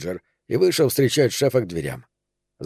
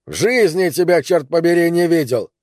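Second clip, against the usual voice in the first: angry shout; 5 semitones higher than usual. Acted. Angry boss shouting at stranger.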